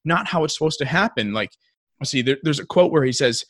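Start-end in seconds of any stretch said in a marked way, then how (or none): 0.1-1.3 higher-pitched mock protest; mildly indignant retold complaint; indignant grandson. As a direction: imitate a kid objecting to a story. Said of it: "starts chewing out his grandpa".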